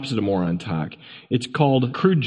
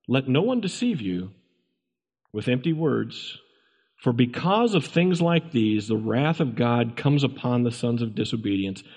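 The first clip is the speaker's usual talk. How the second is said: scripture reading. Real, not acted. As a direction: read the verse solemnly, in separated phrases. Reads scripture aloud to congregation.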